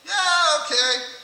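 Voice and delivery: high, loud burst of encouragement; hyped-up self-talk. Acted. Person facing the mirror, hyping themselves up. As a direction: psych yourself up loudly.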